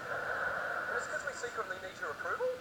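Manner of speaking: "approval" turned up like a question; rising sentence end. Shown as a demonstration. Comic confessing a need for approval, with a questioning rise on "approval". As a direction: end on "approval" as if seeking a yes. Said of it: "where we go up at the end of every sentence".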